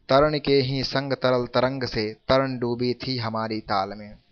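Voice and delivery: slow, measured poem reading; unhurried recital of rhymed verse; verse recitation. Acted. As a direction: recite the couplet slowly, word by word.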